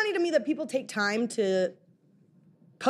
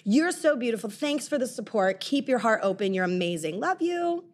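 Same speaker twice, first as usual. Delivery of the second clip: shady sweetness. Retold or imitated. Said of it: "super shade, but, like, nice".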